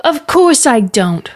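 mild shout back, drawn out. Acted. Girl in the river contradicts mama, shouting back. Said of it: "Gid shouted back".

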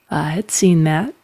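understated dry acknowledgement; dry reply. Acted. Mother answers the aunt's remark, dryly. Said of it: "said Telvin dryly".

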